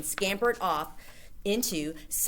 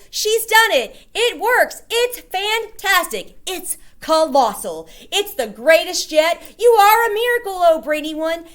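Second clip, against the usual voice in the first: cheering witches; 12 semitones higher, 11 dB louder than usual. A narrator's reading.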